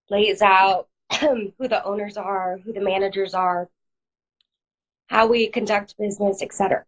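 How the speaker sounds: hoarse, congested voice from a cold; talking through a head cold. Real, not acted. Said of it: "Sorry, I have a cold".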